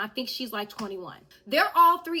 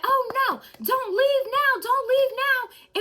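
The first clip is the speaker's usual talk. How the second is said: high, louder singsong taunt; taunting call; 11 semitones higher, 5 dB louder, slower than usual. Retold or imitated. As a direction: tease him loudly not to leave. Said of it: "She's like".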